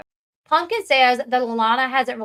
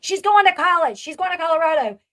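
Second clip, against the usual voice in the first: raised, louder retold argument voice; insistent retort; 5 semitones higher, 3 dB louder than usual. Sister argues back at June that she's going, insistent. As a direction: imitate someone arguing back, pitched up.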